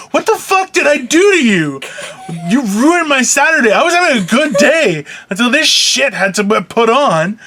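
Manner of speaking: high-pitched mock crying complaint; imitated tearful outburst. Host retelling crying at the wife over a movie, mock tearful. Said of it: "I'm like crying".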